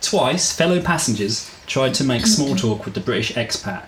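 measured audiobook-style reading; story narration. A narrator's reading. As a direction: read the story out evenly, phrase by phrase. Reads the chapter aloud.

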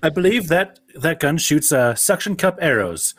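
a hint of prim character acting; mock film character. Acting out the film's exchange.

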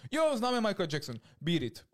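mírně hraný, vysoko posazený radostný výkřik; nadšení domorodci. Retold or imitated. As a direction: napodob nadšeného domorodce, výrazně výš. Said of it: "A oni". (nadšeně napodobený domorodec)

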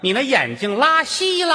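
rude retort. Acted. Mother-in-law rudely retorts.

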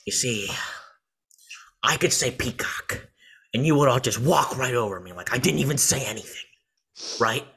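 mock villain monologue with long pauses; halting, theatrical Joker building to indignation. Podcaster as Joker complaining he gets walked over, light impression. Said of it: "my Joker voice is better".

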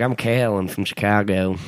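mock Southern accent. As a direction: imitate the campers with a hint of a Southern accent. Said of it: "I gave it a Southern".

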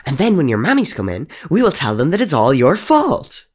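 put-on a ghost girl relishing her plan to wreck the house; building from sly to loud delight; gleeful scheming. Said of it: "dictating the rules of her newest game".

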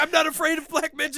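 high-pitched mock protest; defensive denial. Man denying an accusation of fear, defensive protest. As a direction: insist on it, hammed up for comedy.

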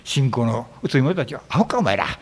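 low-key Osaka-dialect scolding; a blunt Osaka telling-off, lightly put on. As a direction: retell it in casual Osaka dialect. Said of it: "大阪弁で分かりやすく言うと".

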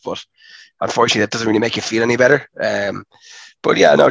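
hoarse from a sore throat; sick, gravelly throat. Real, not acted. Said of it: "even if you sound a bit gravelly".

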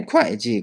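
会計 pronounced kuài jì, with a k onset; careful pronunciation. Shown as a demonstration. Teacher pointing out a tricky word, 会計 carefully said kuài jì. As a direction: say 会計 as kuai-ji. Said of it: "発音に注意ですね".

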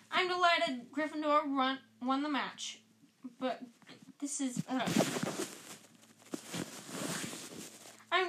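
stern reproach. Acted. McGonagall furious at the class.

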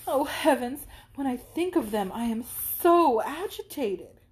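overflowing with mock rapture; gushing excitement. Isabella gushes about love.

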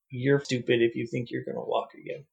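flat, blunt doctor voice; deadpan. Retold or imitated. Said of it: "deadpan in the face".

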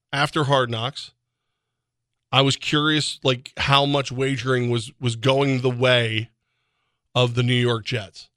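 ordinary talk, nothing marked

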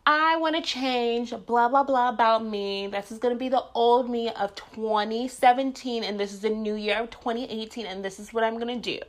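high, mocking imitation of resolution people; mocking impression. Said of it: "I cannot stand when people are like".

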